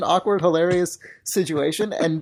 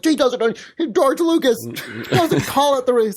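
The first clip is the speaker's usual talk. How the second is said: mocking fans; 11 semitones higher than usual. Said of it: "Everyone else is like".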